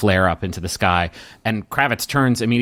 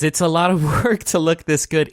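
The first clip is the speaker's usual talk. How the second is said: higher-pitched, lightly overjoyed reply; 6 semitones higher than usual. Acted. Kravitz replies to Taco's compliment, overjoyed. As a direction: answer the compliment, pleased and lifted. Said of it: "he is overjoyed".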